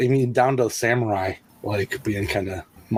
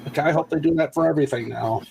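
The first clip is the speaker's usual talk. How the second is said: higher-pitched imitation of an overexcited crowd; mock fan hysteria; 5 semitones higher than usual. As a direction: mimic fans going nuts over a silly joke. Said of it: "people went nuts 'cause they're like".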